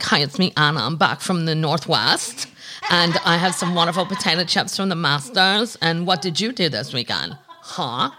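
put-on a light, laughing take on Anna Delvey's European accent, every line bent into a question; mock Anna Delvey teasing her sister, giggling through it. To her sister on the phone, mimicking Anna Delvey, lightly accented and laughing. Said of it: "I've not stopped talking like this".

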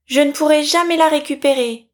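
acted, plaintive distress; saddened lament. A narrator's reading. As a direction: lament it in storybook dismay. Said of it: "s'écria-t-elle tout attristée".

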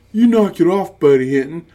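defensive big brother. Retold or imitated. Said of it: "Peter defends her".

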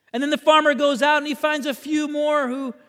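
high, loud storytelling from the pulpit; animated preaching. Real, not acted. Preacher retelling the farmer's hiring, animated preaching. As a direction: press the parable forward with energy. Preaches the parable at full force.

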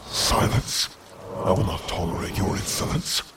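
cold commanding rebuke; stern council leader. Acted. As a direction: cut him off sharply. Council shuts him down.

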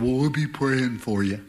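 low, offhand, empty promise to pray; insincere promise. Retold or imitated. Preacher mocking his own empty promise to a sick person, offhand. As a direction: toss it off without meaning it. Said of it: "Oh, liar, liar, pants on fire".

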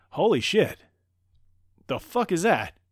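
a high, loud mock gasp of disbelief; shocked. Diana seeing a plane crash, loud mock shock. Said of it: "And she's like".

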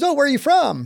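a hint of a Kenyan colonel; imitated British-accented colonel. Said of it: "It's a British accent".

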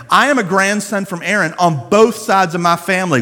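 a mild proud brag, leaning on I am; proud boast. Retold or imitated. Priest's son boasting of his bloodline, mildly proud. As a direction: stack the claims like a proud pedigree. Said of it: "for him to be able to say".

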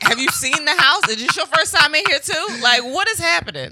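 high, baffled disbelief; incredulous. Retold or imitated. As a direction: ask in total disbelief. Incredulous mock question.

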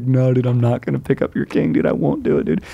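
mock his giggly refusal to pick up the king; imitating little brother.

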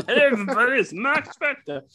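high put-on voice after a laugh; goofy Mark intro. Host finishing the joke Mark intro, high and giggly. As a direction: chirp it like a silly YouTuber. Continues the Mark Spector spoof.

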